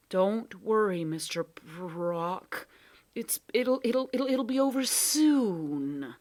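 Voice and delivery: stammering, fading to a whisper; soothing cat. Acted. Cat reassures the Proc, nervous whisper.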